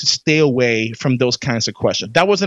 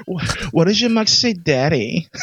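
amused laughter; 2 semitones higher than usual. Real, not acted. Laughing over the replayed clip.

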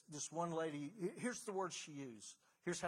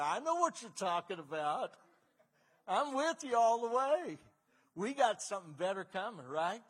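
louder and higher, all in with her; excited agreement; 5 semitones higher, 9 dB louder than usual. Retold or imitated. Preacher cheering up a hopeful amputee patient, excited and loud. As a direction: cheer her on, building to a loud high peak.

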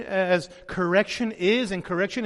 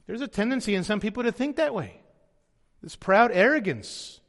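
ordinary delivery

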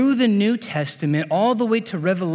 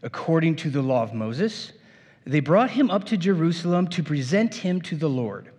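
scripture reading. Acted. Reads scripture aloud to congregation.

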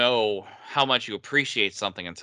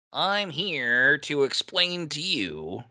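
high snooty voice; 4 semitones higher, much slower than usual. Retold or imitated. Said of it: "that high, high Puck voice".

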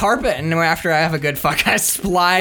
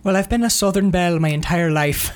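put-on botched Southern belle accent; lightly put-on Southern belle accent; Nicole Kidman. Mocking the actress's wrong accent, Southern belle lilt. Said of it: "says Nicole Kidman".

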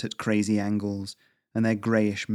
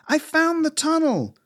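very high, drawn-out shout; loud, urgent far-off call; called back; 5 dB louder than usual. A narrator's reading. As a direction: holler across the cavern. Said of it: "Lisa called back".

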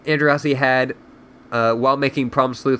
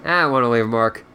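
reading a novel aloud; story narration. A narrator's reading. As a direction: narrate the book in storyteller mode. Reads the book aloud.

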